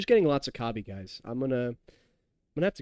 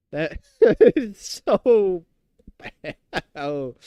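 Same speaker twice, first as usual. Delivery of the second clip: loud, higher, stretched out through laughter; real disgusted laugh; 4 semitones higher, 8 dB louder, much slower than usual. Real, not acted. Streamer reacting to a nasty drink, laughing in disgust. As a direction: laugh helplessly while dragging out the words.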